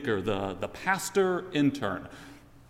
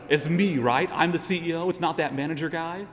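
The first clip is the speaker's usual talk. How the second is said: insistent; 4 semitones higher, 5 dB louder than usual. Acted. CEO insisting on being boss.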